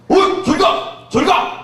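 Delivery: mock yell at a bird on his head; mock shooing shout. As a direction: shoo it away, high and loud. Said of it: "이렇게 막 털어야 되잖아".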